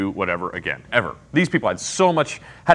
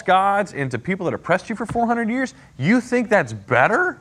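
irritated God. Acted. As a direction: voice God as offended and exasperated. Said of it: "how irritated God is with this".

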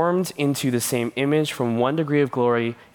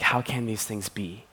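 softer, pleading question; 2 semitones lower, 6 dB quieter than usual. Acted. Nicodemus desperately pleading with Jesus, soft. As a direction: beg to understand, quietly. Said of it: "he's pleading when he's like".

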